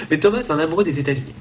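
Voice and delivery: repeats the line with a laugh; laughing through it. Shown as a demonstration. Vlogger laughing at his own third-person line. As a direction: breaks into a laugh on Thomas and carries on amused. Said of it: "je parle de moi à la troisième personne".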